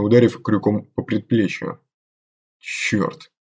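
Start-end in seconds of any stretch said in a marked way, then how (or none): 2.6-3.3 whispered curse through pain; hissed curse. Acted. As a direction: spit it out under breath. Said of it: "выругался наёмник".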